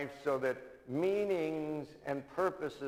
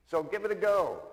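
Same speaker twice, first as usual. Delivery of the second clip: urging; 7 semitones higher, 7 dB louder than usual. Retold or imitated. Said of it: "he said".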